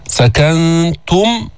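very slow chant of سكنتم with a thin "tu"; drawn-out سكنتم, light t; light rounded ta. Shown as a demonstration. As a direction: round the ت of سكنتم without making it heavy. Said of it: "ضمينا التاء المضمومة بدون تفخيم مع الترقيق".

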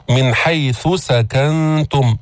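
slow chant, ث kept apart from س in "حيث سكنتم"; separated consonants. Shown as a demonstration. Teacher drills separating the letters, slow chanted articulation of "حيث سكنتم". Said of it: "افصل الثاء عن السين".

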